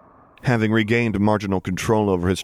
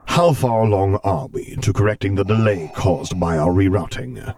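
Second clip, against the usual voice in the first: Darth Vader voice; 4 dB louder than usual. Acted.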